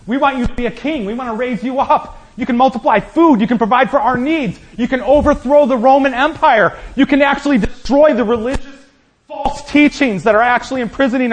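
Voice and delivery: lightly voiced Peter begging him to be king; Peter pleading. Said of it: "And Peter comes to him and says".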